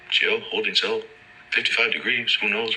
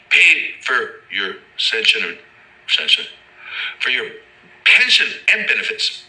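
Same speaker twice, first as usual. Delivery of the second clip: loud, high, slow yell; 5 semitones higher, 4 dB louder, slower than usual. Retold or imitated. Man yelling up from the bottom at an inmate, loud yell. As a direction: shout it up at the tier, drawn out. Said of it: "I yell".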